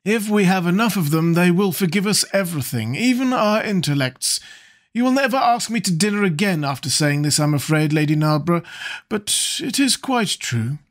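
a hint of an amused dandy; Lord Henry voice. Lord Henry's cynical quip.

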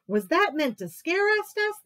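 high, loud teasing monkey; mocking monkeys. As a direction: tease like cheeky monkeys.

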